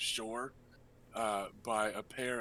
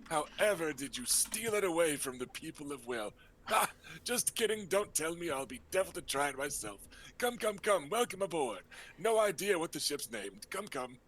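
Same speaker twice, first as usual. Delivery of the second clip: lightly raised, breezy uncle voice; flamboyant uncle; 3 semitones higher, faster than usual. Acted. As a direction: play the charming rogue host.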